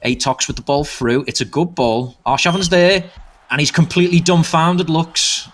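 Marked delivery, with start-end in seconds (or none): 2.2-5.5 excited. Real, not acted. Goal call in live commentary.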